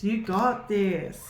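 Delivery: slow, firm encouragement; slow encouraging. Real, not acted. Reader reassuring a viewer before a leap, slow and firm. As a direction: lean in and reassure them slowly. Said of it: "but you can do this".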